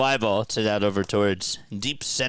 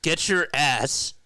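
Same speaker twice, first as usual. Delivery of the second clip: mock yell, higher and louder; retold yell; 7 semitones higher, 4 dB louder, slower than usual. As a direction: bark it like an impatient friend. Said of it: "And he yells at me".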